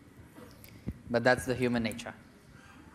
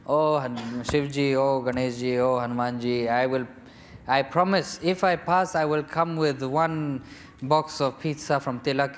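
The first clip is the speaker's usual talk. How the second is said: desperate pleading; 3 dB louder than usual. Retold or imitated. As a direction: beg the gods loudly and eagerly. Student bargaining with gods.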